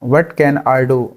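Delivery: drawn out slowly. Shown as a demonstration. Teacher repeats the question slowly. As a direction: say it slowly, word by word. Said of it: "मैं क्या कर सकता हूँ".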